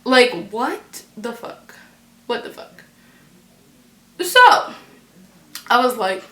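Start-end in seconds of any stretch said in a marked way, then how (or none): 0.0-1.8 slow, drawn-out bafflement; confuzzled. Retold or imitated. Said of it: "I'm reading this completely confuzzled". 2.3-2.8 softly baffled reaction; confuzzled. Retold or imitated. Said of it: "I'm reading this completely confuzzled".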